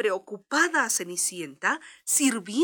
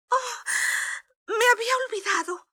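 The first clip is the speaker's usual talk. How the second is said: high, fast alarmed cry; startled exclamation; 12 semitones higher, faster than usual. Acted. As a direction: blurt it in sudden panic. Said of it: "exclamó Cenicienta".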